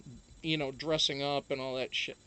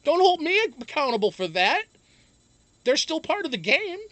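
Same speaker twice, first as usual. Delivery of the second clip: loud protest; 10 semitones higher, 9 dB louder than usual. Real, not acted. Defending against chat accusation.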